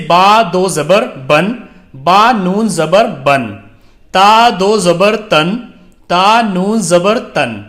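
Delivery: slow, measured spelling-out, each syllable set apart; slow drill recitation. Shown as a demonstration. Teacher reading the Qaida drill to beginner students, slow measured recitation. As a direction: recite each letter and its sound slowly for students to repeat.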